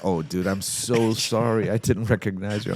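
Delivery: embarrassed fan apologizing; starstruck apology. Retold or imitated.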